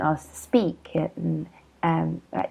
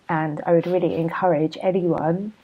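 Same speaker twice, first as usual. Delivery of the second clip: talking through a yawn; yawning mid-sentence. Real, not acted. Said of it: "sorry, I'm yawning".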